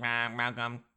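mock robot voice; stiff, mechanical alien greeting. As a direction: announce it like a sci-fi robot. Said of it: "gonna sound like robots".

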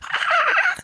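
very high wheezing squeal; high squealed "ah" of hysterics; imitated heavy laughing. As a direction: mimic helpless, near-silent laughing.

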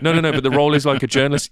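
mock-insistent correction over the phone; acted protest. Agent objecting to casting guys on the phone, mock protest.

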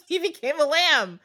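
high-pitched, through real laughter; words breaking into giggles; laughing. Real, not acted. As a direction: tell it while cracking up. Cracks up at her own story.

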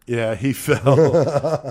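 slow, laughing through the words; drawn out with a laugh. Pretend. Joking about guards' cover story.

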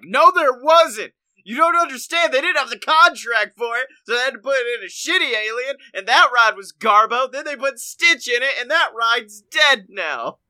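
high, loud exasperated rant. Retold or imitated. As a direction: insist it, worked up and loud. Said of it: "I'm like".

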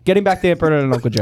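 rushed repeat, x1.8 pace; fast repeat. Real, not acted. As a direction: hurry it through impatiently.

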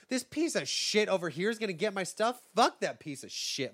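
mock-indignant rant about an heir; aggressive and upset. Abram griping about his servant inheriting, mock aggressive. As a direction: act put out and contemptuous. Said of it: "he seems very aggressive and upset about it".

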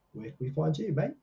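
a light Australian twang on mate; casually slipping into an Australian lilt; Australian accent. Pretend. Host asking co-host where to find her, lightly Australian. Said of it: "I don't know why I went Australian".

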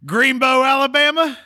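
high, rising Forrest Gump joke; playful. Acted. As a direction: pitch it way up and tease. Jokes about Forrest Gump's hometown.

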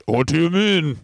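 lightly voiced indignant club comic; Bernard Manning. Banned comic questioning the club, lightly put-on protest.

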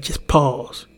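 "just pause" said slowly and evenly, at ordinary pitch; slow, calm advice. Shown as a demonstration. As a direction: draw out "just pause" gently like settled advice. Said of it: "If you ever wanna react with violence".

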